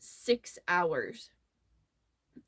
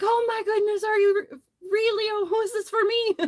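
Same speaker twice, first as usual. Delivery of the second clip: high, delighted gushing, nearly squealing; an overjoyed old Irishman thrilled by a gift; gushing with surprise, voice jumping up high; tickled old man; 12 semitones higher, 6 dB louder, faster than usual. Retold or imitated.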